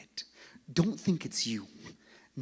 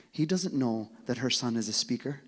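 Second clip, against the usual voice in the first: louder, rising preacher's build; building preacher's call; 6 dB louder than usual. Real, not acted. Preacher rousing the congregation, louder and louder. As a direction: drive the point home to the crowd.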